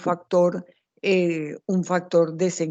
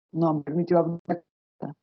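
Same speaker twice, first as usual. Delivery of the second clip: breaking up over a bad connection; cutting in and out on a video call; choppy audio. Real, not acted. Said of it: "se le escucha entrecortado".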